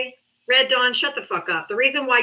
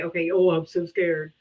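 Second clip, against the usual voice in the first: sarcastic fear; 6 semitones lower than usual. Acted. Host answering a beat-down threat, sarcastic fear. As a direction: feign fear, totally unimpressed. Mock reply to quoted threat.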